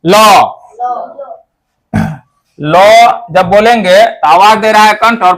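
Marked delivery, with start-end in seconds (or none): 0.0-0.6 "लो" said clearly on its own; demo syllable. Shown as a demonstration. Teacher showing the class how "लो" sounds. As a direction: model "लो" for the students. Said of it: "तो इसका उच्चारण करेंगे".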